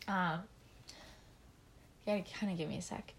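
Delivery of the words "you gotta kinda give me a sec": out of breath. Real, not acted. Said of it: "I'm kinda out of breath".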